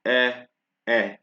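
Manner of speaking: E as "eh", as in bet; French open E. Shown as a demonstration. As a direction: say each E short and open. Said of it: "they change the sound".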